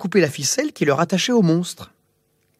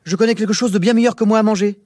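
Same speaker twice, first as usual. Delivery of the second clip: hurried plea; 5 semitones higher, faster than usual. Acted. King bargains in panic.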